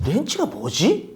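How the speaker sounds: retold inner question, slow and soft; puzzled to himself. New worker stumped by an unknown tool name, quietly puzzled. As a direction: wonder it quietly, drawing it out.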